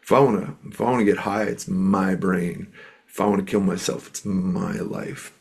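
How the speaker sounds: mildly worked-up mimicry, leaning on each claim; upset. Young man defending his choices to a mentor, mildly upset. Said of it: "he was upset with his parents".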